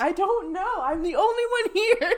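high, loud, panicky mock fear; mock frightened. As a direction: play the scared found-footage victim. Mock horror scene, ghost music.

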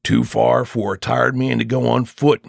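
a touch of kindness in a man's voice; softening toward the tired stranger; kindly. Acted. Father takes pity on the tired traveller, kindly. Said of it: "said the master of the house kindly".

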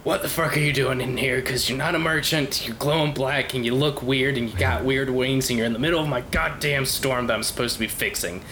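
irritated, threatening dwarf; gruff dwarf druid. Acted. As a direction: chase the stranger off, fed up. Lore confronts the intruder.

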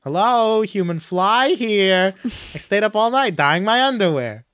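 high, stretched-out hail; mock calling out. Costumed guy on skyscraper seeking attention, high mock call. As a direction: call down slowly from a great height.

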